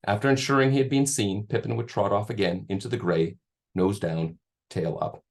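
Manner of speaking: steady read-aloud storytelling voice; story narration. Acted. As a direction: read the passage to listeners. Author reads novel passage aloud.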